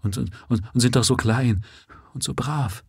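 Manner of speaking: soft, halting, words breaking off; quiet. Acted. Grieving father pleading softly for his boys, quiet and halting. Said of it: "sprach leise weiter".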